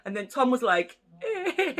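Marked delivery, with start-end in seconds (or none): 1.2-1.7 mock sob. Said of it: "He was crying as well".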